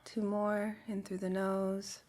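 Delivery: calm, unhurried guide with long pauses; guided meditation. Real, not acted. Guide settling a group with communal breaths, calm meditation voice. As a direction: lead them gently into stillness, leaving space to breathe.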